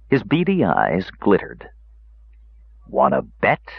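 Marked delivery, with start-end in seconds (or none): 2.9-3.7 low, sly dwarf challenge. A narrator's reading. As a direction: tease them with a grin.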